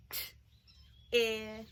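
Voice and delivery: "T-ip" broken into its sounds; "T-ip" segmented slowly; sounds split apart. Shown as a demonstration. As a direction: stretch "T-ip" apart. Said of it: "Let's say it slowly".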